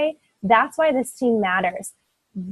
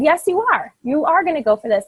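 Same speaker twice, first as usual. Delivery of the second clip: emphatic insistence; 5 semitones higher than usual. Retold or imitated. Insisting teammate goes for goal.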